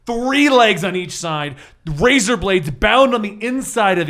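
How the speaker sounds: slow, deliberate boss description; game master scene setting. Acted. Game master describes the spider mech to the players, slow and dramatic. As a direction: build the menace of the giant mech slowly.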